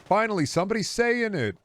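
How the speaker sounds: mock excited Grok. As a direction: squeal it like a chatbot finally set free. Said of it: "Grok being like".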